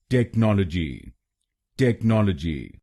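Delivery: टेक्नोलॉजी as tek-NOL-o-ji, stress on NOL; correct pronunciation. Shown as a demonstration. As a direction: model टेक्नोलॉजी with the weight on नॉल. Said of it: "इसकी सही pronunciation है".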